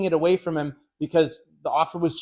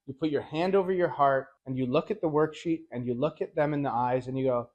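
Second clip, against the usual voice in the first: normal talking voice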